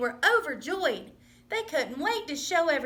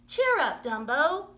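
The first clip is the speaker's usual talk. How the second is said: cheering up; 3 semitones higher, 4 dB louder than usual. Acted. Mouse cheers up sad friend.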